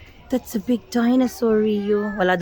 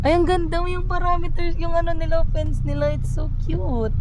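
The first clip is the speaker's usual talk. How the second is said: excited; 9 semitones higher, faster than usual. Real, not acted. Gushing over cute dinosaur park.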